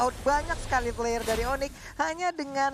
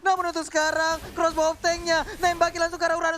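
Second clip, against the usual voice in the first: excited shouting caster; 5 semitones higher, 4 dB louder than usual. Real, not acted. Caster shouts during a clash.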